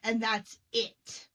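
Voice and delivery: slow, emphatic verdict; acted fed-up parent. Parent blaming the child, acted fed-up. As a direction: lay it down as final.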